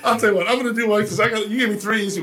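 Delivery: talking through a laugh. Real, not acted. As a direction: laugh it out loud while talking. Laughs while answering host.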